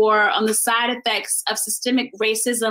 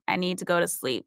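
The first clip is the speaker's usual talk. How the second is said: hushed pleading; 4 semitones lower, 6 dB quieter than usual. Acted. Insomniac thoughts voiceover.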